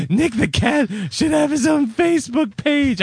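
high gushing online fan; mock gushing voice. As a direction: gush it like a pet lover. Quoting someone online.

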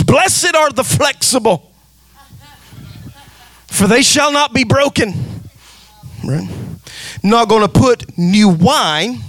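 sermon delivery lifting toward a peak; preaching. Acted. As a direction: preach it with building fervor. Preacher building to full force.

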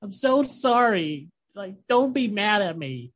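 high, pleading crybaby goblin voice; mock crying. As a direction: whimper it like a goblin begging forgiveness. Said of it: "the goblin's just crying".

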